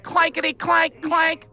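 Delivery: slow, high-pitched clanking imitation; imitated clanking. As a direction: stretch out the clanks like a rattling coaster. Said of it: "sounds like it's fucking falling apart".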